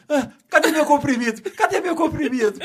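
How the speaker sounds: put-on high, fast, trembling old man asking for his pill; shaky grandpa panic. Grandpa trembling after the fall, mock panicked old man. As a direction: play a flustered grandpa half laughing. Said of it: "ele fica assim".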